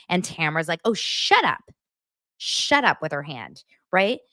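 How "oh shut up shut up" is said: high-pitched mocking brush-off; rude dismissal. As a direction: imitate a rude, dismissive retort. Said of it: "It's so rude".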